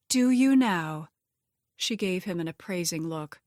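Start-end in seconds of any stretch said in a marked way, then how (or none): 0.1-1.1 slow and teasing; sly, drawn out. A narrator's reading. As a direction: draw it out, amused and suspicious. Harriet intrigued, drawn out.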